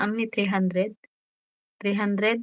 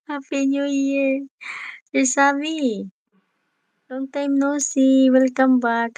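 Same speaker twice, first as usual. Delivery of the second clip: welcoming someone home; 5 semitones higher than usual. Real, not acted. Greets returning friend Sammy.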